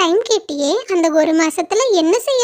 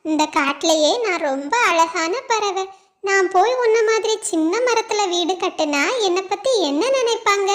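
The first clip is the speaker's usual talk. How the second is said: a lightly voiced proud bird, softer, scoffing; haughty bird; 3 dB quieter than usual. Proud blue bird scoffs at the small mango tree, haughty. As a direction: sneer down at the little tree.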